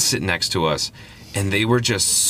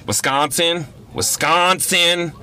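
WISCONSIN thrown back high, as an incredulous question, the second drawn way out; high-pitched, questioning WISCONSIN, poking fun at how it's said; mocking repetition; 9 semitones higher, much slower than usual. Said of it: "making fun of my voice".

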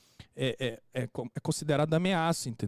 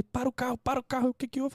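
much higher, urgent repeated command; retold urgent order; 8 semitones higher than usual. Father-in-law telling the driver to stop for an ambulance, high and urgent. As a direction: re-enact a panicky passenger.

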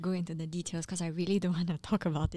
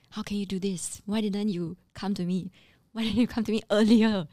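retold reprimand, firmer on the last question; stern but controlled; 2 semitones higher, 6 dB louder than usual. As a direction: confront an employee without shouting. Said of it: "I didn't really raise my voice. But of, of course, I use stronger words".

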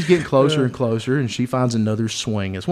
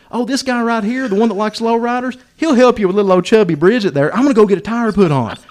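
high, louder teasing of a buddy; gleeful volunteering; 8 semitones higher, 6 dB louder than usual. Retold or imitated. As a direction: cheerfully throw your friend under the bus. Teller gleefully volunteers his friend.

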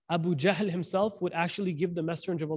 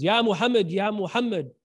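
mock calling-out, louder at first; retold screaming; 2 semitones higher, 5 dB louder than usual. Man calling the Prophet from outside, mock yell. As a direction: imitate someone hollering at a door. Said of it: "he just starts screaming".

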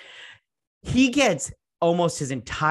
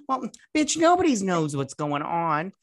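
high sarcastic jab; 4 semitones higher than usual. Real, not acted.

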